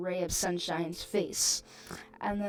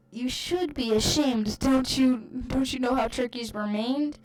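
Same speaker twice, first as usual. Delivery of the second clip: higher, loud indignant yell; shouting; 4 semitones higher, 6 dB louder than usual. Retold or imitated. Aunt shouting at dad about turkeys, indignant yell. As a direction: shout it in moral outrage. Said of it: "He shouted".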